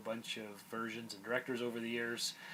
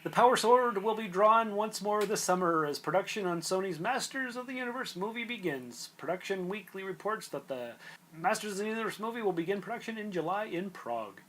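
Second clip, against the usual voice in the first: raised, energetic podcast news-reading voice; 7 semitones higher, 6 dB louder than usual. Real, not acted. Host reading movie news to co-host, news read. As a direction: read the headline out with punch.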